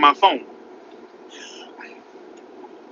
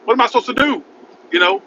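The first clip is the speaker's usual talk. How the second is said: exasperated; 7 semitones higher, faster than usual. Real, not acted. Distressed rhetorical question.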